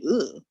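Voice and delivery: short, recoiling "ooh"; cringing ooh. Retold or imitated. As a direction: let out a little cringe. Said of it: "I kinda cringed at that".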